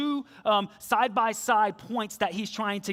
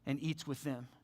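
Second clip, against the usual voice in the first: grumbling; 4 semitones lower, 9 dB quieter than usual. Retold or imitated. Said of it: "they grumble".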